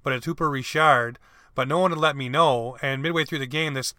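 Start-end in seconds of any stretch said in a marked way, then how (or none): 0.3-1.2 Richard said the French way, ree-SHARD; French surname pronunciation. Shown as a demonstration. Caller correcting his own mistake on a player's name, French pronunciation. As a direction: stress the second syllable of Richard, with a sh. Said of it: "I thought it was Hooper Richard, but it's".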